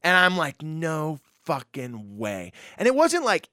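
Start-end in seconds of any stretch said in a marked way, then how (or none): 0.6-2.5 slow, drawn-out awed disbelief; stunned disbelief. Retold or imitated. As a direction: let it out slowly, starstruck. Stunned at meeting a singer.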